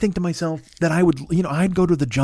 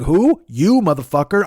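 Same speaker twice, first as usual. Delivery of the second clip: owl voice; 4 dB louder than usual. Pretend.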